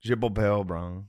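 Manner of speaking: lightly put-on French accent. Shown as a demonstration. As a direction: show off a little French. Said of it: "let me give you a French".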